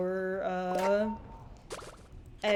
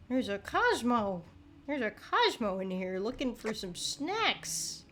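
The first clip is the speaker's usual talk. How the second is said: sing-song; 2 semitones higher than usual. Pretend. Sing-song announcing Cosmo.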